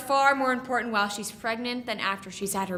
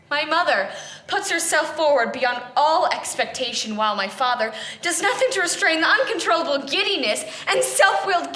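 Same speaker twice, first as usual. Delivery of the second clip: raised, emphatic tirade about one's own family; indignant complaint; 2 semitones higher, 5 dB louder than usual. Acted. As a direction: let the exasperation build and push the key words. Indignant list of family failings.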